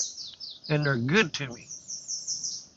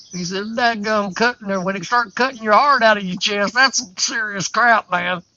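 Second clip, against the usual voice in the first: higher, louder hammed-up brag; louder, higher mock-serious brag; mock boasting; 5 semitones higher, 4 dB louder than usual. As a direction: ham up the old man's scar talk. Mock-retells friend's boasting.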